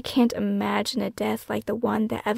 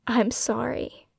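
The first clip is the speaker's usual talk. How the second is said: crying; 2 semitones higher, slower than usual. Acted. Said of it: "I cry".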